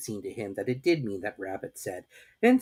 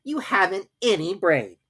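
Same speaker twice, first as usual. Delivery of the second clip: kindly; 9 semitones higher, 5 dB louder than usual. A narrator's reading. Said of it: "said Rabbit kindly".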